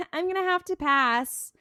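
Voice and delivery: high, loud put-on demurral; mock polite refusal. Dean turning down the two women, mock reluctant.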